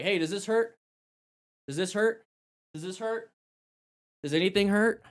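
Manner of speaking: lifted, questioning check on a patient; gently checking on someone. Shown as a demonstration. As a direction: probe for pain, pausing after each question. Demonstrating questions to injured rider.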